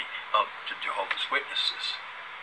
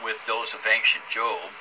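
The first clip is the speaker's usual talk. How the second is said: preachy voice. Acted. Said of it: "He's off on his preachy voice again".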